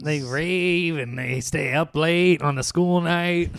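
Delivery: slow, lightly put-on grumbling old man; old man complaining. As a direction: tut about kids these days. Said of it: "sound like an old man complaining".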